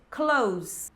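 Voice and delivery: clothes said as "cloze"; clothes with the TH silent; Z ending. Shown as a demonstration. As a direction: say clothes with nothing but a Z at the end. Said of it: "só isso".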